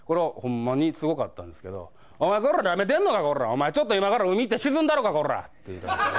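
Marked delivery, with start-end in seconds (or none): 2.2-5.4 yankee threatening. Retold or imitated. Delinquent threatening the clerk, angry. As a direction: menace them like a street thug. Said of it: "めっちゃ間違えてたのに".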